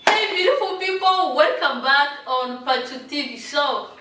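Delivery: bright high show host greeting; vlog intro. Acted.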